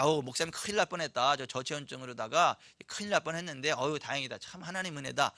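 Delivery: soft, relieved sigh of thanks; relieved murmur. Retold or imitated. Relieved pastors talking over stew. (안도하며 조용히 중얼거림)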